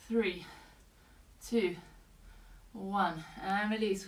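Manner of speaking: breathless counting down; out of breath. Real, not acted. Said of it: "Ooh, I'm getting out of breath now".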